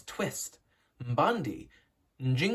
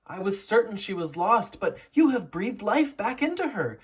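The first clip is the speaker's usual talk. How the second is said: exclaiming; 5 semitones higher, 4 dB louder than usual. A narrator's reading. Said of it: "exclaimed the nurse".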